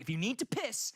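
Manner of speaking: high-pitched guide's warning; insistent, slowing to drive it home; emphatic instruction. Retold or imitated. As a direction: imitate a guide laying down rules. Acting tour guide's instructions.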